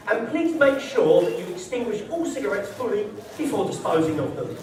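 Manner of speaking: lightly officious read-out of a memo; mock office email. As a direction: read it as a formal facilities notice. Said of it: "They talk in this bollocky language".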